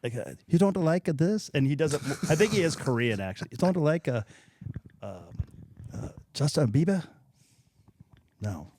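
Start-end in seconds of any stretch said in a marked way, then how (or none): 0.5-1.5 mock Asian accent. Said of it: "in an Asian accent". 3.5-7.0 mock Asian accent. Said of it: "in an Asian accent".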